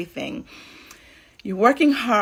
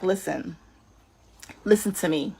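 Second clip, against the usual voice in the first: calm God voice; 3 semitones lower than usual. Acted. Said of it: "God is like".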